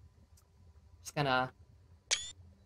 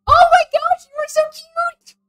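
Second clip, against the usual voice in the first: high, loud gushing squeal; excited squeal; 11 dB louder than usual. Real, not acted. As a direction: squeal at something adorable. Gushing over character, said twice.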